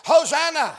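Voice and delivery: mild acted praise shout; restrained mock scream; crowd screaming. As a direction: call it out like the crowd. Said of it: "screaming to the top of their voice".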